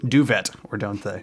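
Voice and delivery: "Duvet" said as doo-vet, hard T sounded; "Duvet" pronounced as spelled, doo-VET. Shown as a demonstration. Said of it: "say that in a way that everybody knows exactly how it's spelled".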